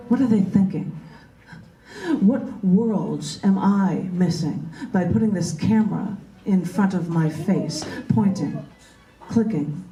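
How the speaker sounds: slow, measured poetry reading; poem reading. Acted. Poet reading her own poem to the group, slow and measured. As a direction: let each image land with pauses.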